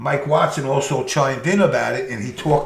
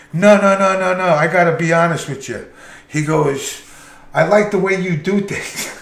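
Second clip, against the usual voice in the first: higher, louder, hurried 'no, no, no' of a suddenly friendly boss; eager boss voice; 4 semitones higher, 4 dB louder than usual. Retold or imitated. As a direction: play the boss backing down, now eager to please. Boss voiced in retold story.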